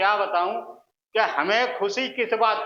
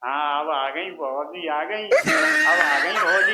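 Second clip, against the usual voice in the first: overjoyed; 3 semitones lower, slower than usual. Retold or imitated. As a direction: burst into mock delight as it goes on. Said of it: "दिल खुशी से हिलोरे लेने लग जाता था". (खुशी से चहकते हुए, नकली उत्साह में)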